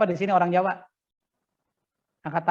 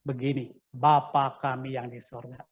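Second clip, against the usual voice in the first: Jesus teaching; 6 semitones lower, slower than usual. Acted. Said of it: "Baru Yesus bilang".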